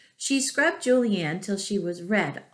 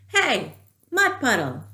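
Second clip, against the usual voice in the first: high, louder call across the yard; yelling; 4 semitones higher, 4 dB louder than usual. A narrator's reading. Girl in raincoat calling the mud puddle, yelling. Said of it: "So she yelled".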